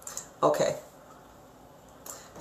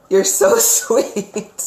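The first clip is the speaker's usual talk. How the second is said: laughing; 3 semitones higher, much slower than usual. Real, not acted. Psychic charmed by the client.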